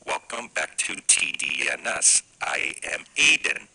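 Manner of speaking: soft whisper, feeding the lines; whispered prompt. Shown as a demonstration. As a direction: whisper the words to the kid. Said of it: "you just say".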